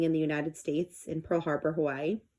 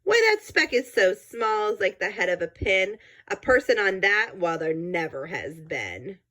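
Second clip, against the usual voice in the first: lightly voiced scornful kangaroo; sour kangaroo. The sour kangaroo mocks Horton, lightly voiced scorn. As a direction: scoff at the idea, dismissive.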